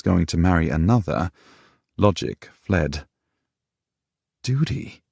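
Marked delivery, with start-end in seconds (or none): 4.4-5.0 bitter word through clenched teeth; through her teeth. A narrator's reading. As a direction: spit it through gritted teeth. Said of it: "she said through her teeth".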